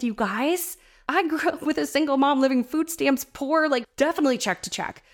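fired up. Real, not acted. Coach telling listeners how far she has come, fired up. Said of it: "I'm so fired up".

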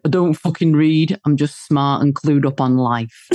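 lightly imitated northern English accent, blunt. Husband answering a stranger, in a blunt northern English accent. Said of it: "That's a northern accent".

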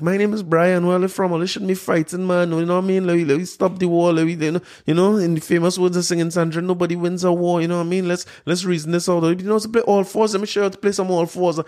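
breezy hippie pitch to stop the war; carnival mode. Retold or imitated. Mocking the soldier as a naive peacemaker, breezy. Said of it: "you're going on carnival mode".

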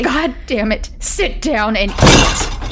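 screamed. Acted. Wife screaming at Michael to sit, furious outburst. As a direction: snap into a rage, slow and hard. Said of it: "she screamed".

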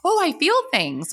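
high-pitched playful swoon; hammed-up discovery of feelings; mock emotional outburst. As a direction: play at being overcome. Acts out her newly emotional self.

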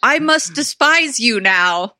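slow, hammy villain line; evil queen line. Retold or imitated. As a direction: ham up a bad queen line. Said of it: "lines like".

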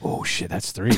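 breathy laugh through words. Real, not acted. Laughing reaction.

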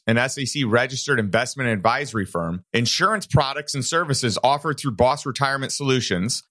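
brisk, even compliance read; disclaimer read. Acted. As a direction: read the fine print crisply.

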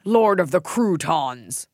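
slow, grand alien lord voice. Pretend. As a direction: announce yourself as alien ruler. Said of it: "sound like an alien name".

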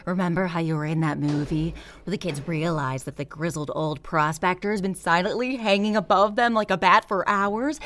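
ordinary talk, nothing marked

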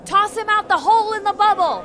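hammed-up outraged cry; mock angry demand. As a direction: bellow the sentence like a mob leader. Mother demands West's banishment.

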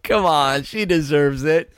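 high, sing-song sarcastic voicing; hammed-up self-righteous cheater; mock hypocrite voice. Co-host mocking the double standard in a high voice.

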